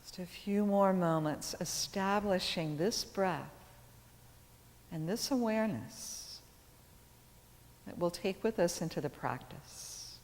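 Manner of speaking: calm yoga teacher guiding breath awareness; measured phrases with long, settling pauses; guided meditation. Acted. Leads seated breath awareness.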